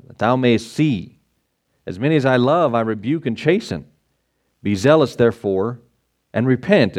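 measured, solemn Bible reading; scripture reading. Acted. Pastor reads Revelation to the congregation, solemn reading. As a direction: read it like the King James text.

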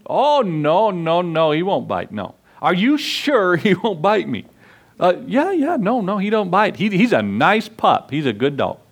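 put-on a kid brushing off the worry; boy reassuring. Boy voiced in retold story.

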